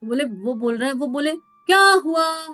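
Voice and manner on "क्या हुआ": slow, unbothered what happened; lost in his own bliss, ask it slowly; fakir asking the crowd slowly, unbothered; carefree puzzlement. Retold or imitated. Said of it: "अपनी धुन में मस्त".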